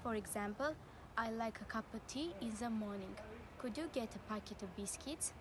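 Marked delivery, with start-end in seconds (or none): 1.2-5.3 "a" and "of" reduced to unstressed uh; weak schwa. Shown as a demonstration. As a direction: keep "a" and "of" short and unstressed, as schwa. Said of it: "a and of are both pronounced as".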